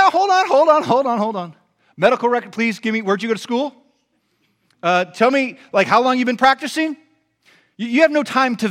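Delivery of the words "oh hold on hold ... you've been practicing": high, loud, urgent objection; mock protesting patient. Sick patient to gathered ER doctors, mock protest. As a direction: stall them with hammed-up alarm.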